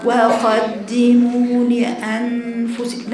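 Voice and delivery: وقدموا لأنفسكم slow and slack; lazy reading. Shown as a demonstration. Teacher mimicking the lazy way, slack and slow. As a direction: read وقدموا لأنفسكم without energy. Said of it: "لا، لا، لا. فين الجدية؟".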